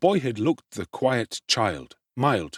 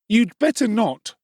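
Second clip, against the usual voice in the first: high mocking bully voice; jeering voice; 12 semitones higher, 5 dB louder than usual. A narrator's reading. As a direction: sneer it up high. Noah mocks Oliver, Oliver Twist reading.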